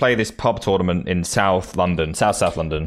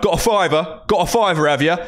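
high-pitched mocking demand; cocky, raised-pitch needling; imitating loud pestering; 7 semitones higher than usual. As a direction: pester them loudly for cash, in mimicry. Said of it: "like, really loud".

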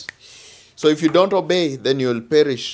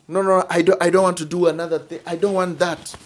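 higher-pitched imitation of someone refusing; mock stubborn refusal; 3 semitones higher, faster than usual. A sinner refusing to obey God, mock stubborn refusal. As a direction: protest in a raised pitch, mimicking a refuser.

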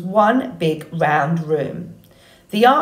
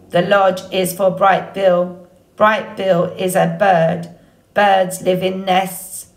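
robot voice. Acted. The robot answers.

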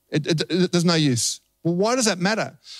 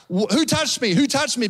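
higher-pitched mild mock yell; calling out; 5 semitones higher than usual. Jesus wants the entire crowd to understand, calling out. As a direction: call it out for a crowd to hear, without real shouting. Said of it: "He's probably yelling out".

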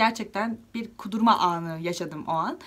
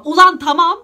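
exasperated outburst; 5 semitones higher, 13 dB louder than usual. Real, not acted. Exasperated outburst at friends' meddling.

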